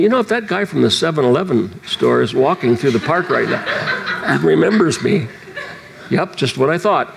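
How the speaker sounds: talking through laughter; laughing. Real, not acted. Preacher laughing at how silly he looked. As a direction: chuckle through the words. Recalling looking like a nutcase.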